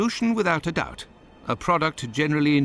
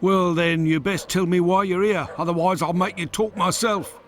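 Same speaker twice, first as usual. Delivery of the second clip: rough dealer. Acted. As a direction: challenge the intruders like a street tough. Dealer confronts intruders in shop.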